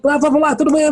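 high, energetic radio DJ; hard sell ad. Retold or imitated. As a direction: pump it up like youth radio. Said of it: "tinha que falar rápido o tempo todo".

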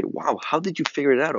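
a touch of wonder; impressed listener. Retold or imitated. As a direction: lightly imitate someone amazed. Imitating impressed listeners' reaction.

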